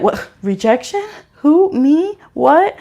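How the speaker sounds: mock disbelief. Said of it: "they're like".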